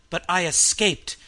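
loud triumphant cry; triumphant scream. A narrator's reading. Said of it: "the scream rose triumphantly".

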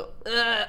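short mock gag; imitated retch. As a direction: act out queasy gagging. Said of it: "själv vill spy redan innan". (härmad kväljning)

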